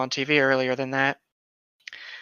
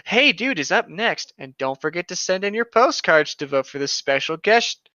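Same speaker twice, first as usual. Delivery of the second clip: reading Stick's lines. Acted. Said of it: "His full dialogue".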